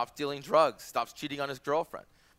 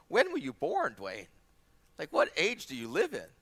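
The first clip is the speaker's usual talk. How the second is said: mock incredulity. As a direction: act out a baffled young man's challenge. Acted indignant young man challenging pastor.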